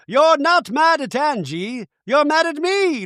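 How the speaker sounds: high-pitched put-on challenge; mock confrontation. Imitating a cast member barging in on the group, mock confrontation. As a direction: imitate an indignant interrupter in a high voice. Impression of Bronwyn confronting Lisa.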